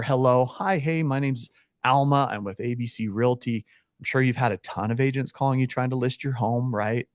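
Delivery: easy, relaxed intro at plain pitch; soft friendly opener. Shown as a demonstration. Agent demoing the right cold-call opener softly. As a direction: invite them in gently. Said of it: "let's softly go through that".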